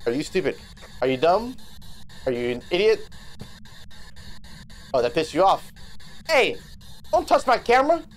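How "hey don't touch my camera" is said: real outraged shout at the ghost; angry shout. Real, not acted. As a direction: yell at the ghost to back off. Ghost touching his camera.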